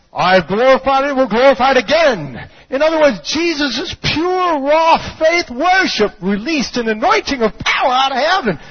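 high, loud pulpit proclamation; full-force preaching. Acted. Preacher proclaims the voice from heaven, full-force preaching. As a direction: declare it with driving intensity.

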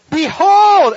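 high, loud ringing "Behold!"; Jesus turning to the crowd, proclaiming. Acted. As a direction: announce it like a herald.

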